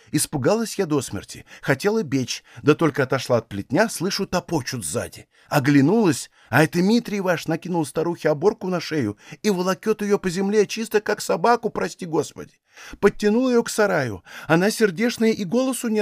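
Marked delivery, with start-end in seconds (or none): none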